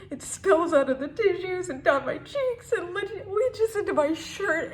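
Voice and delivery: tearful, on the edge of sobbing. Acted. Tears spilling out.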